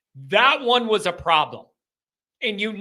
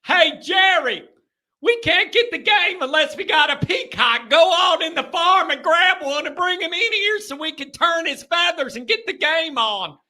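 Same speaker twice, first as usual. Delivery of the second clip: hick Louisville fan; 9 semitones higher than usual. Retold or imitated. Host imitating a fan telling Jerry to fetch a peacock, in a hillbilly accent. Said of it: "I could just see 'em".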